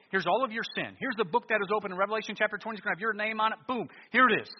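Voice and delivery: loud, high, pounding sermon voice; full-force revival preaching; fiery preaching. Acted. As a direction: hammer the judgment home.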